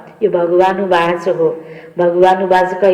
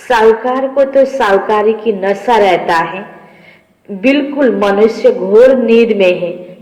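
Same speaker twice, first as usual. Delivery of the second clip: measured, emphatic reading of a holy text; deliberate devotional recitation; scripture reading. Acted. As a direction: read out the teaching phrase by phrase, drawing out words.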